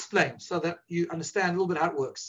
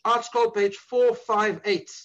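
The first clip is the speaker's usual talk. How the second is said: slowly; slower than usual. Shown as a demonstration. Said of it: "I'm gonna say this slowly".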